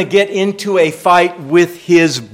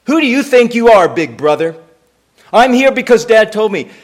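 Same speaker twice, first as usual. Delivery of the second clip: imagined angry retort; 4 semitones higher than usual. Pretend. Imagined retort David never made.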